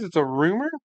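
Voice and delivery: rising, disbelieving "rumor"; surprised question. Real, not acted. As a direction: ask it back in surprise.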